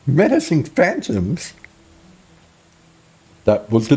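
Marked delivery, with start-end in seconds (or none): 0.1-1.5 a laughing echo of menacing phantoms; amused repeat of the name. Real, not acted.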